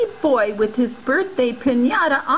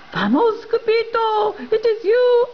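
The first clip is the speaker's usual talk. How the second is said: panicked cry; 7 semitones higher than usual. Acted. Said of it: "they cried".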